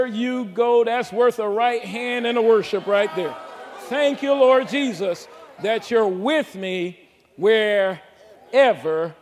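loud rising shout of praise; preaching climax. Real, not acted. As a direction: burst into worship.

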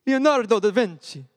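put-on playful Italian-accented name; mock Italian accent. Speaker asking the group about Leonardo, mock Italian accent. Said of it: "reading this in a Italian accent".

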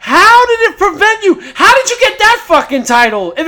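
exasperated demand. Real, not acted. Mocking AEW's excuse.

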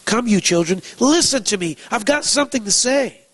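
climbing, insistent call; emphatic, commanding proclamation; authoritative summons. Acted. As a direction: summon them with authority, pitch rising on "listen". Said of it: "this is very authoritative".

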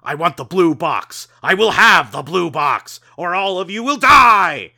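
tower over them and threaten; commanding voice. Acted. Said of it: "comes a commanding voice in your head".

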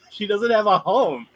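high, loud alarmed repeat; mock alarmed. Neighbours repeat the odd fact to Vision, high and alarmed. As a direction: say it like it's shocking news. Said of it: "he's like".

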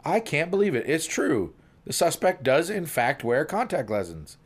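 happily astonished cop; beaming amazement. Acted. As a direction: marvel at it with a big smile. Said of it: "comes back with a beaming smile".

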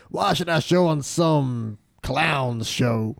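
put-on slow, grumbling old cowboy star; Buck McCoy voice. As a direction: sound like a washed-up cowboy actor, slowly. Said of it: "doing this voice enough".

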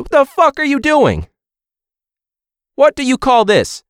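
high, loud outraged British chef rant; Gordon Ramsay. Acted. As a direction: berate them in a put-on British accent. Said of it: "or any district, and be like".

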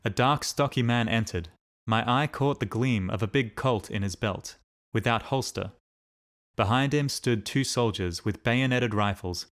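ordinary delivery

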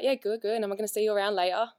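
put-on a light, poor go at an English accent; attempted English accent. Fan retelling Tom Felton's casual goodbye, attempted English accent. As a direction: imitate an English accent, not very well. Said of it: "Oh, that's a terrible accent".

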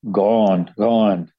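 barking dog voice. Acted. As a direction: bark it out like a dog. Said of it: "barked the watchdog".

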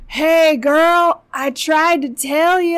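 high, loud smug told-you-so; high loud mocking I-told-you-so; smug creep. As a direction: gloat at the injured girl. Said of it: "he's like".

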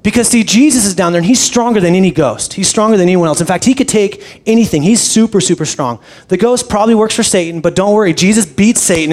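a hint of an earnest little girl preaching; little evangelist daughter. Pastor imitating his daughter, lightly voiced eager child. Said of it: "my six-year-old little evangelist".

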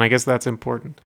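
mildly dismissive concession. Real, not acted. Podcaster conceding that you can still move to it, mildly dismissive. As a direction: brush it off as a grudging afterthought. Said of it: "I said that very dismissively".

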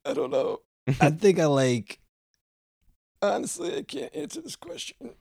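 very high, thin put-on voice; odd high voice. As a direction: squeak it out in a strange high voice. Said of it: "where did you get that voice from".

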